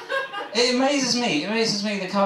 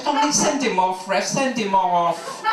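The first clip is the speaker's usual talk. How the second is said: whiny footballer; 3 semitones higher, slower than usual. Retold or imitated.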